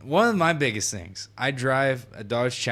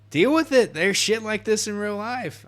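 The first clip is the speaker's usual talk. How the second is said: much higher, louder mock retort; 10 semitones higher, 5 dB louder than usual. Gamer arguing about his car being banned, loud mock retort. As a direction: snap it back at them.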